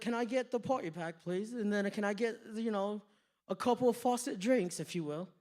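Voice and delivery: put-on British accent. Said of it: "hear me do a British accent".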